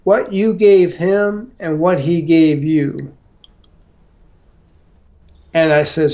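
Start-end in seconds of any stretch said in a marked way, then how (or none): 0.0-3.1 slow, lightly imitated Southern accent; retold agent's Southern accent, unhurried; odd Southern accent. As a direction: draw the words out in a mild Southern imitation. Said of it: "he had this odd Southern accent".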